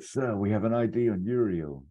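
mock-urgent movie extra's line; urgent underling. Extra urgently briefing Womack in mission control, urgent. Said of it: "urgent line".

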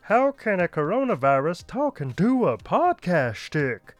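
lightly voiced smug virus, teasing and vain; smug virus character. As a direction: play a cocky germ bragging to humans. Plays Coco the coronavirus.

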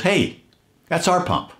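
put-on high, startled old lady calling out. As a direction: play the surprised elderly driver. Elderly lady at gas pump.

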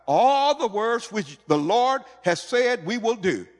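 high, loud, drawn-out pledge; one-accord proclamation. Acted. All the people answering with one voice, fully committed. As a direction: ring it out as a whole crowd agreeing. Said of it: "listen to the attitude now. One accord now".

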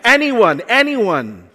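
mock exasperation. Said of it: "I wonder if he's like".

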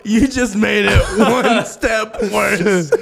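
slow, laughing cop reprimand; mock cop scolding. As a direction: drag it out like a stern cop, barely holding laughter.

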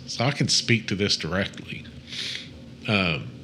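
stuffy nose from allergies; nasal voice. Real, not acted. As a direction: talk through blocked sinuses. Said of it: "excuse me if I sound a little nasally".

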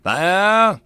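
high, loud command with a falling end; cried-out order. A narrator's reading. Sergeant springing an ambush on soldiers, crying out. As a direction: cry the order out to the troops. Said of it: "the sergeant cried out".

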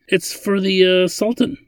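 high, halting confession; cringing. A narrator's reading. Ladin confesses the client to Simic, cringing. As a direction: wince through the admission. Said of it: "he cringed".

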